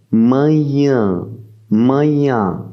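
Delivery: manhã with nh like gn and nasal ã; Portuguese manhã. Shown as a demonstration. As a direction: model manhã for learners. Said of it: "Par exemple". (manhã, nh mouillé et ã nasal)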